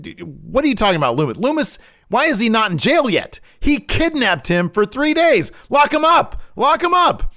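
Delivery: hammed-up hysterical Gargano yelling at the therapist; shrill demand. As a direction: screech lock him up at the therapist. Gargano demands Loomis be jailed.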